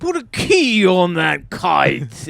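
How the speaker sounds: slow, lightly voiced old-timey British; mock Ben Franklin. Franklin instructing about the kite, in a mock British voice. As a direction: do a pompous Franklin. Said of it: "what did that guy sound like".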